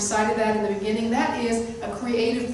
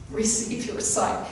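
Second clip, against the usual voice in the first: simple command again. Shown as a demonstration. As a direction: let it fall gently. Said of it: "he simply said this".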